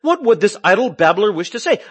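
loud scoffing quote through a laugh; amused ridicule of the babbler; laughing mockery. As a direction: laugh at him while asking. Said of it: "some were saying".

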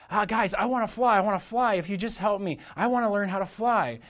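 mock-earnest plea; eager pleading. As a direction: mildly beg like a keen kid brother. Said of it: "he desired so badly to fly".

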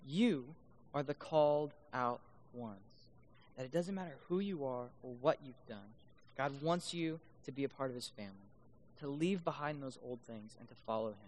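low, soft assurance; quiet preacher's invitation; gentle preaching appeal. Real, not acted. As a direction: drop to a hushed, sincere appeal. Soft appeal after the climax.

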